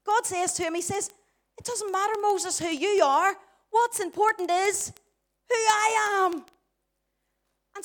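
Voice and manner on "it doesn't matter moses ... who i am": raised, commanding divine reply; emphatic God. Acted. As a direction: build to a loud, high declaration. Acts God answering Moses.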